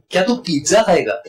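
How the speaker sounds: पिज्जा leaned on, the rest run together; stress on pizza. Shown as a demonstration. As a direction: make pizza the point of the question. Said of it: "दूसरा है". (पिज्जा पर ज़ोर देकर)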